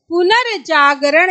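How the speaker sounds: पुनर्जागरण slowed, र sounded before जा; teacher modelling the correct reading; slow demo pronunciation. Shown as a demonstration. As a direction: draw out पुनर्जागरण so the र leads into जा. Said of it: "क्योंकि हम बोल रहे हैं पुनर्जागरण".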